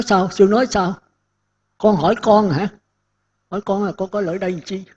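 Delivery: lightly voiced startled woman; wide-eyed surprise. Woman asking the monk, mildly astonished at his reply. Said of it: "Cô tròn con mắt".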